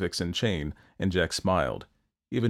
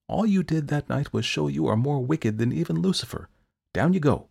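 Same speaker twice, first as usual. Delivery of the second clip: Saint Peter voice; 6 semitones higher than usual. A narrator's reading. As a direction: deliver the verdict drily. Peter condemning Jack.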